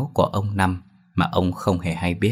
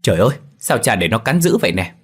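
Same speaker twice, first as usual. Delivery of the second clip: mild panicked cry, a bit louder; panicked yell; 3 semitones higher, 3 dB louder than usual. Acted. Son sees the dog biting his father, crying out in alarm. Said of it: "nó vừa la lớn hốt hoảng".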